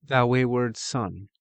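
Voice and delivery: a solemn shield maiden addressing the ogre; a touch of eerie solemnity; haunting woman. Acted. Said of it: "a woman's haunting voice".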